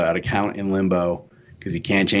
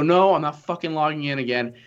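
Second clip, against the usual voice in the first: exasperated, pitched higher, refusing; fed-up yell; 5 semitones higher than usual. Retold or imitated. Refusing the phone agent, exasperated raised voice. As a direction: snap back that you won't log in. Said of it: "I'm sorry I'm yelling".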